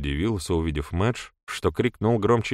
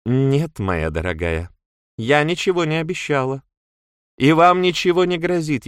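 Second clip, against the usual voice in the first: stern headmistress; 7 semitones higher, 5 dB louder than usual. A narrator's reading. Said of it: "совсем как директриса школы".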